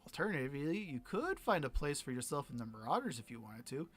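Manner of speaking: lightly voiced pirate captain closing the deal; a hint of a gruff pirate captain; pirate captain character. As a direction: lay out the terms, then ease off.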